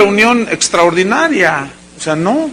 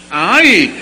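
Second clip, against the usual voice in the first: mock laugh. Laughs imitating greedy Judas.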